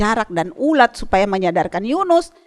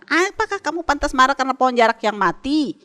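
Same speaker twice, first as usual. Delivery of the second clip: higher, rising challenge, lightly voiced; a hint of a probing, patient God; God questioning; 3 semitones higher, 3 dB louder than usual. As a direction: ask it like God gently testing Jonah. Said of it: "gitu Tuhan Allah bilang".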